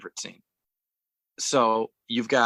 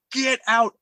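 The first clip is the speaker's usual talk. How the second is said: high-pitched imitation of screaming; half-voiced retold scream, pitched up; mock scream; 10 semitones higher than usual. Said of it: "She's screaming".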